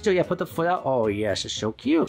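very high, sing-song pet voice. Real, not acted. Baby talk playing with dog.

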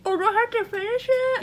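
high, disgusted, mouth full; talking around a gross bean. Real, not acted. Chewing a toothpaste jelly bean.

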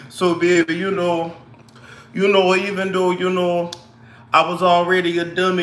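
imitated New Orleans accent, held on a level pitch; shaky attempt at New Orleans accent. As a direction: play the glue-hair woman with a put-on New Orleans accent. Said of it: "I can't really do New Orleans".

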